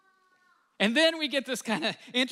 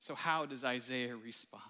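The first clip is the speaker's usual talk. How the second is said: breathy whispered question; 9 semitones lower, 8 dB quieter than usual. Real, not acted. Pastor whispers the question to the congregation. Pastor drops voice after pause.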